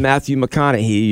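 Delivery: "McConaughey" said with a final "hee"; wrong long E ending. Shown as a demonstration. Host correcting listeners, wrong long E ending. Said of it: "you're doing it wrong".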